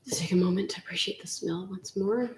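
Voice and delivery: soft unvoiced whisper. Real, not acted. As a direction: breathe it out, hushed and savoring. Savoring the smell of batter.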